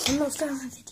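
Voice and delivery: hushed whisper to the side. Real, not acted. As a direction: whisper it so the camera misses it. Kid aside while aunt films.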